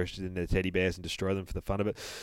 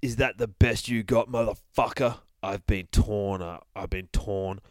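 grim vengeful bear. Acted. Bear's menacing monologue.

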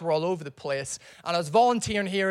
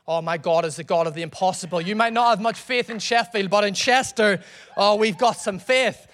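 fast, loud bragging; 3 dB louder than usual. Retold or imitated. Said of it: "And he's like".

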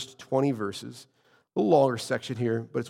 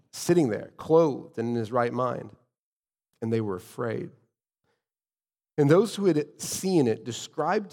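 raised, emphatic Bible reading; scripture reading. A narrator's reading. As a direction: read God's word out to the congregation. Resumes reading the passage.

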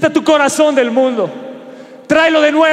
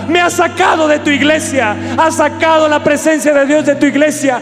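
higher, ringing sermon voice over music; full-force preaching; 3 semitones higher than usual. Acted. Pastor voicing Jesus' words to the church, fervent and shouting.

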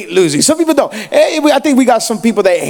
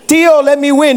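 lightly voiced child, higher pitch; imitated pleading nephew; 6 semitones higher than usual. Nephew begs his uncle during the game, imitated child pleading. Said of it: "nine years old".

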